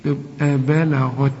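بلغت said with a clear throaty gh; slow careful بلغت with ghayn; ghayn sound. Shown as a demonstration. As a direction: replace the ain with ghayn in بلغت. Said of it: "حط لي بدل العين غين".

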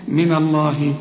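من الله said with a thick heavy nun; wrong heavy nun. Shown as a demonstration. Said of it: "تفخمها لي وتقول لي من الله".

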